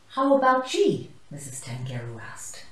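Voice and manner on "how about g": higher, louder call to the class; teacher calling to the class, higher and louder. Acted. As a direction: call out the letter brightly. Teacher calls out a letter.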